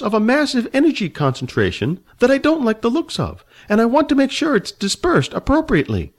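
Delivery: put-on high, fussy old man, haughty and annoyed. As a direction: play the prickly old dragon rider, voice pitched high. Old man introduces himself.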